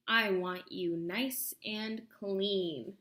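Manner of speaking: slow, relishing witch purr; gloating witch. Acted. Witch gloating to Sasha about supper, slow and relishing. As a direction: savour every word slowly.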